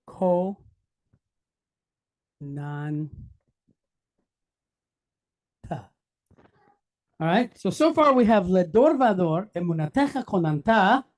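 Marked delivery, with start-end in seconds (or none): 0.1-5.9 Ko, Nan-, ta with long pauses between; syllable by syllable. Shown as a demonstration. Teacher letting the class write each sound, Ko, Nan-, ta broken up. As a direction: say Ko, Nan-, ta as three separate syllables. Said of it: "So what sound do we have here?".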